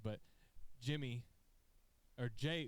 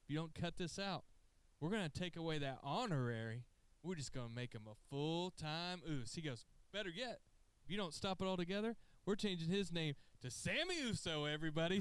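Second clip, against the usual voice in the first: higher, building to crowd announcement; mock announcement; 5 semitones higher than usual. Roman threatening the crowd, lightly hammed-up. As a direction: proclaim it to the arena. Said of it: "and Roman said".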